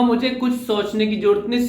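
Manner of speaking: ordinary talk, nothing marked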